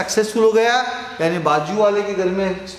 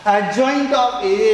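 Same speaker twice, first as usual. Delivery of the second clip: each word drawn out very slowly; very slow, deliberate "Adjoint of A"; slow emphatic term; 3 semitones higher, much slower than usual. Shown as a demonstration. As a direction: spell out the term for the class. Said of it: "teacher stresses term slowly".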